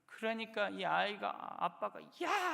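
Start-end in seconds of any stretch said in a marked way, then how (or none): 2.2-2.5 very high, loud single shout; sudden yell. Retold or imitated. Dad shouting at the baby, sudden loud shout. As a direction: snap the word out as a sudden alarm. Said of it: "하는 순간부터".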